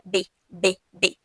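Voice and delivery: B with both lips and no teeth; two-lip b. Shown as a demonstration. Teacher showing the Spanish bilabial sound. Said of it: "só o uso dos dois lábios".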